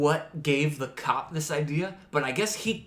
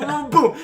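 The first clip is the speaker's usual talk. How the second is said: playful sound effect; 12 semitones higher, 8 dB louder than usual. Retold or imitated. Mimics clicking the song.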